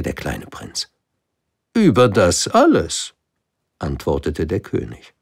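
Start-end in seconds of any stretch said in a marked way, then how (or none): 1.7-3.1 loud, higher, falling on „alles“; „alles“ set down firmly as fact; confirming king. Acted. Prince questions, king confirms. („Über das alles“ bestätigend, „alles“ fallend und fest)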